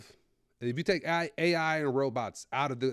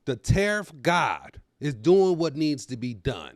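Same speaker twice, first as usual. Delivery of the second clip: mock reverence; 4 dB louder, slower than usual. Mock reverent praise of Trump.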